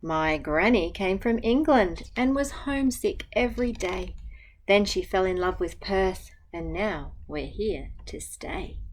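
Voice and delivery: gentle, even picture-book reading; reading to children. Acted. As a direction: read the rhyme aloud to a class. Teacher reads picture book aloud.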